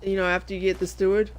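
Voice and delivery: talking through a burp; words cut by a burp. Real, not acted. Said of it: "excuse me, I'm burping".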